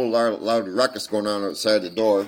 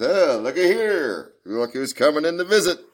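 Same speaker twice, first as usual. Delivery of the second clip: retold Holmes; 10 semitones higher, 7 dB louder than usual. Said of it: "He goes".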